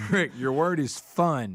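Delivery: spelling bee announcer. Pretend.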